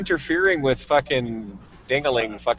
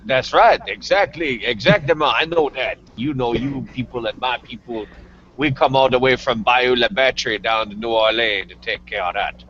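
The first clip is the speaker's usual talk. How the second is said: put-on Cajun accent. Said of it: "Gus has a penchant for accents".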